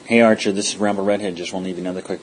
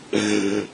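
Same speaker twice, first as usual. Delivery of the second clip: mock gasp. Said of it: "Oh, I'm so emotional".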